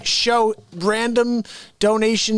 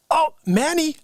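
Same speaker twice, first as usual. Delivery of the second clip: imitating parents; 10 semitones higher than usual. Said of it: "they'd be like".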